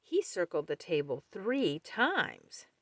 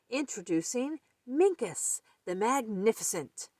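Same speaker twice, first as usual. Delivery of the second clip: announcer; 5 semitones higher than usual. Acted. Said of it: "announced the rabbit".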